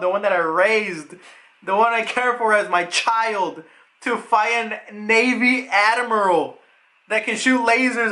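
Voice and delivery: mock anguish, opening on a high outburst; acted self-reproach. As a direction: imitate someone cursing his own mistake. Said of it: "he's hitting his head and he's like".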